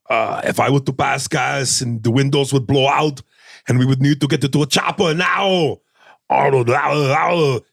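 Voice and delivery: lightly voiced Austrian action-star impression; Arnold. Passenger explains himself in the car joke, action-star impression.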